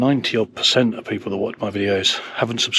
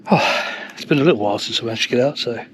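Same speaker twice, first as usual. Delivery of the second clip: puffing after the climb; out of breath. Real, not acted. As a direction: talk while catching your breath. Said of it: "I'm a bit out of breath".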